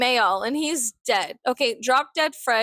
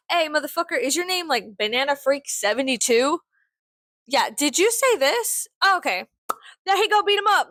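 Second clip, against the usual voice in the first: Jay and Silent Bob style; 4 semitones higher than usual. Pretend. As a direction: roll up on the troll like a street heavy. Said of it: "Jay and Silent Bob style".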